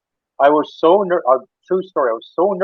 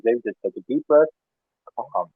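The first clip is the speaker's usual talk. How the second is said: a soft, calming coach voice, dropping quieter on calm; calm reassurance; 5 dB quieter than usual. Retold or imitated. News anchor calming David before going live, softly. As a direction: settle a nervous guest gently. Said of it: "just calmly".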